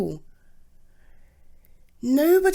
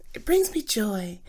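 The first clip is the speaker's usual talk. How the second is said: whispered to herself. Real, not acted. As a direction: murmur "It brings me joy" as a secret reassurance. Self-talk, repeated phrase.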